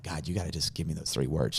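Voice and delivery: low, soft plea to God; subdued, earnest pleading; retold prayer. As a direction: beg quietly and privately. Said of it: "And I'm praying".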